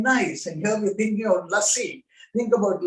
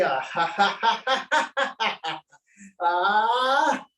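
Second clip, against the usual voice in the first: hearty demonstrated laugh; a big laughter yoga ha ha ha. Shown as a demonstration. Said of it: "And say".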